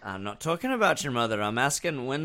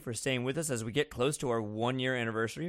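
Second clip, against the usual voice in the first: host announcement; 5 dB quieter than usual. Real, not acted. Mid-episode break announcement.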